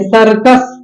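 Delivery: सर्कस with the tongue touching the teeth on s; touch the teeth for the s sounds in सर्कस; dental s. Shown as a demonstration. Teacher demonstrating the dental sa, carefully enunciated s in सर्कस. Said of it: "दांत को touch करते हुए".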